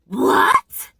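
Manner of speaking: loud, stunned "What?"; shocked double take; disbelief. Real, not acted. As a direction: react in real disbelief. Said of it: "You gotta be kidding me".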